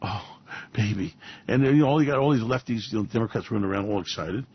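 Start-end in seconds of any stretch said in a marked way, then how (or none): 0.0-1.1 mock gloat. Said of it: "Pelosi's going".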